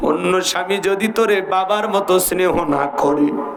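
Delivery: weeping, tearful voice.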